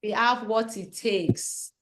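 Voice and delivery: slow, firm affirmation; booming affirmation. Shown as a demonstration. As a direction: lead the chant slowly, every word firm. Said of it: "And we say".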